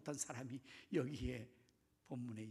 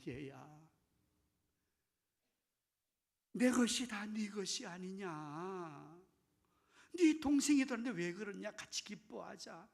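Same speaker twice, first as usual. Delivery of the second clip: coaxing father; 2 semitones higher, 4 dB louder than usual. Acted. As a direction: plead with him gently, stretching the sentence endings. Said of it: "어, 나가서 달래는데". (아들을 달래듯 길게 늘여서)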